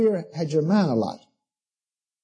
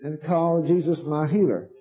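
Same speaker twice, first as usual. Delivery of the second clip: mocking quote; 2 semitones lower, slower than usual. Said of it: "Now Brother Norval said".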